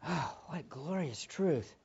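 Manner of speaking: gentle wonder; tender. Real, not acted. Soft echo of earlier exclamation.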